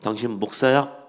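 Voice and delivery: mock accusing question; retold abusive challenge. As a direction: challenge him like an abusive heckler, mildly. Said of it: "갑자기 막 욕을 하면서".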